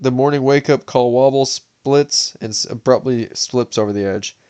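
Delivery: steady, measured audiobook read; story narration. A narrator's reading. Reads novel aloud to viewers.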